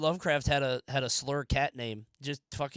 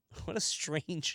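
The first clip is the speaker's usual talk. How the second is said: usual speaking voice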